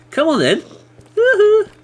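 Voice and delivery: high, loud triumphant cheer; gleeful whoop. Real, not acted. Cheering loudly as the mob falls in the trap. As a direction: whoop like you just won.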